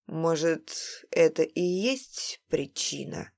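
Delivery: slow, lightly huffing words; puffing. Acted. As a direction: wheeze it out wearily. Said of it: "пропыхтел толстяк".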